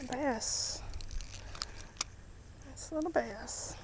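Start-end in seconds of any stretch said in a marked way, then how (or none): 2.6-3.7 "little" stressed within a quiet remark; emphasis on little. Real, not acted. Angler sizing up a small catch, stress on "little". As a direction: softly say it, leaning on the word "little". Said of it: "Emphasis on little".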